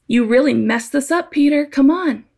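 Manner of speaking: mild disappointed scold. Retold or imitated. Jesus scolding sinking Peter, mild mock disappointment. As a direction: lightly chide him, a touch exasperated. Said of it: "I hear that as negative".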